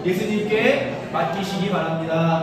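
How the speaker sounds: loud congregational lead-in; projected blessing over the congregation; calling out. Real, not acted. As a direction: call it out for everyone to repeat. Leads congregation in repeated greeting.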